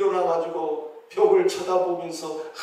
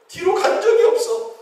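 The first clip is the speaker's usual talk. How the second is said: much higher, emphatic exclamation; preacher marvels at the sun; excited preaching; 4 dB louder than usual. Real, not acted. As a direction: fire it up high. Sermon climax on the sun.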